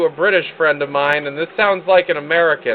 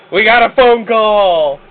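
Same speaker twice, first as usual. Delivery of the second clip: loud, drawn-out, higher-pitched excitement; excited announcement; 4 semitones higher, 6 dB louder, slower than usual. Real, not acted. Host announcing a phone call, excited. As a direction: whoop it out slowly and loudly.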